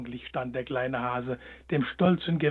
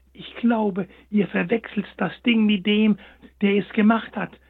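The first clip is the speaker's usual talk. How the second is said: hare gently objecting; 5 semitones higher, 5 dB louder than usual. A narrator's reading. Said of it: "gab er ihnen zu bedenken".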